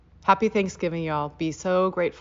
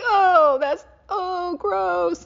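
much higher, loud squealing gross-out; mock disgust; 13 semitones higher, 7 dB louder, much slower than usual. Kids reacting to Nana's chewing, squealing disgust. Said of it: "we'd all be like".

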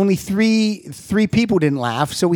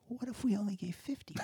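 laughing; 3 semitones higher than usual. Retold or imitated. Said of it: "So then we were like".

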